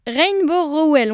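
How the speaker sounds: slow, careful French-accented English name; English words in a French mouth, drawn out; slight French accent. Real, not acted. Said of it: "on va le dire avec un accent français un peu".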